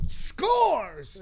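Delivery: high laughing cheer; excited whoop. Retold or imitated. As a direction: squeal with delight as a kid. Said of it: "I was like".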